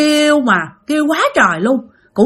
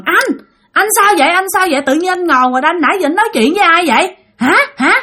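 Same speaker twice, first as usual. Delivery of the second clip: higher-pitched, insistent questions; retold urgent calling; 5 semitones higher, faster than usual. Wife trying to rouse her dazed husband, retold urgent calling. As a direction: re-enact trying to rouse someone, pressing for answers. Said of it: "Mà chị kêu vậy đó".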